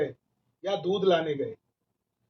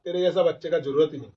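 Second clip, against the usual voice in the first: scornful brush-off; much faster than usual. Retold or imitated. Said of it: "वहां उसको झिटक देता".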